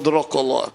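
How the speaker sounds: Dracula as DROCK-a-la with an open o, falling; Irish pronunciation. Shown as a demonstration. Guest savours the Irish original: Dracula, DROCK-a-la. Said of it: "Sounds better in Irish".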